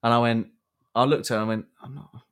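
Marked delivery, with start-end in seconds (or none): 1.8-2.2 laughing. Retold or imitated. Correcting the woman's lie, laughing.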